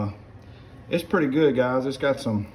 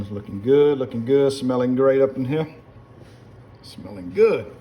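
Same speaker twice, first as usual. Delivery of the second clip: raised, rising sing-out of approval; half holler it like calling dogs; 4 dB louder than usual. Real, not acted. Cook sizing up the pot, hollering like calling rabbit dogs. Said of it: "sound like I was calling rabbit dogs".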